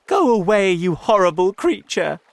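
loud, high yell of alarm; shouting. A narrator's reading. Frightened friends to the attacking shark, shouting. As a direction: yell to scare the beast off. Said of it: "they shouted".

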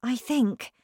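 put-on eager young teacher. A narrator's reading. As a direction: insist on the girl's gifts. Miss Honey voiced in story.

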